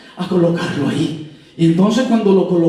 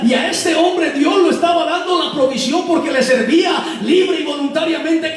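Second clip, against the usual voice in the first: fervent preaching; 6 semitones higher than usual. Acted. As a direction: pitch climbing steadily to a high climax. Preacher builds to a climax. (predicación fervorosa en ascenso)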